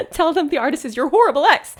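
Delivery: playful overdone read, horrible ex leaned on; mock dramatic suggestion; dramatic delivery. Shown as a demonstration. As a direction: ham it up for laughs. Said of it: "Why did I say it like that?".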